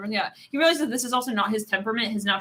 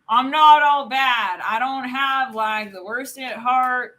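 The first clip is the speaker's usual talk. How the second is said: put-on slow, stretched Texan accent; 5 dB louder, much slower than usual. Reader voicing someone defending themselves, slow Texan accent. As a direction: protest in a drawn-out mock Texan. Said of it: "I can't even get out of the accent now".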